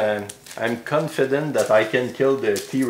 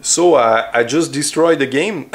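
excited; 7 dB louder than usual. Real, not acted. Celebrating winning the game.

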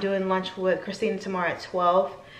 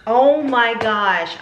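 overwhelmed gasp; 4 semitones higher, 7 dB louder, much slower than usual. Real, not acted. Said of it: "why I'm getting emotional".

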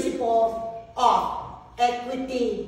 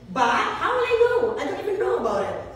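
laughing; 5 semitones higher, faster than usual. Real, not acted. Laughing about not knowing.

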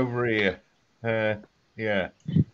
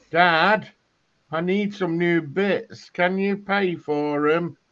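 put-on kid voice; 6 semitones higher, slower than usual. Acting a kid asking dad.

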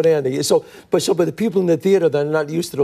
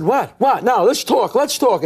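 rising, pressing mock confrontation; mock menacing scene-partner voice; intense challenge; 6 semitones higher, slower than usual. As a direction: push him like an angry father. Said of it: "I said".

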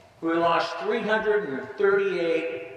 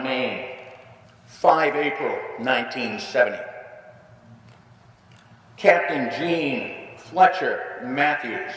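solemn roll call. Acted. A veteran honoring Maine's fallen soldiers, a solemn roll call. Formal reading of the names of the fallen.

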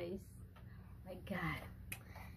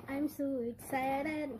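higher, slow, drawn-out excitement; excited; 5 semitones higher than usual. Real, not acted. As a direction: stretch it out with giddy anticipation.

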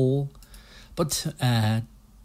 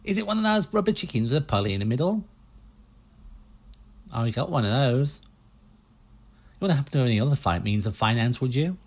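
put-on US salesman accent; 3 semitones higher, faster than usual. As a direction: pitch the boats like a pushy American car salesman. Player keeps voicing Stan.

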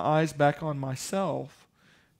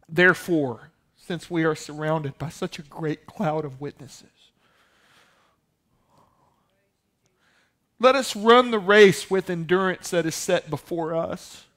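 booming voice from heaven; 5 dB louder than usual. Retold or imitated. Heavenly intercom voice to the dreamer, booming and solemn. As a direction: call it out like a voice over the intercom. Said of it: "This loud voice just says".

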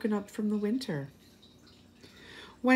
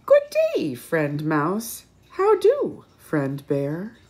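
cheery hare; 3 semitones lower, 4 dB louder than usual. Acted. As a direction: sing out the greeting like a bouncy hare. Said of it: "along hops Hare".

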